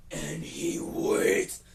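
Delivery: slow drawn-out whisper; dramatic whisper. Acted. Storyteller stretching the waiting moment, slow whisper. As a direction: draw out the wait in a hush.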